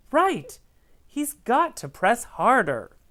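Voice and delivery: high, keen agreement; lightly voiced eager crayon. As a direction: jump in eagerly.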